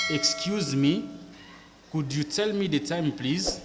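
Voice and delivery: slow careful English model sentence; model English phrase. Shown as a demonstration. Teacher modelling a polite question for students, careful and slow. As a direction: say it slowly for learners to copy. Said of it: "écoutez très bien comment est-ce que je prononce".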